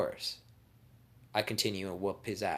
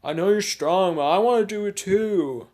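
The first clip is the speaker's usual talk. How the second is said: protesting Sasuke; 10 semitones higher, 15 dB louder than usual. Acted. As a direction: yell it like a kid demanding his turn. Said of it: "and Sasuke's just".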